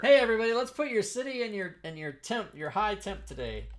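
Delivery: loud fast announcement; calling out. Real, not acted. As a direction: rattle it off loud and quick. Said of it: "calling out to chat".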